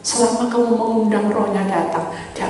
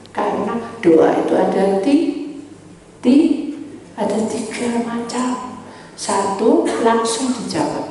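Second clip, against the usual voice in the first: ordinary delivery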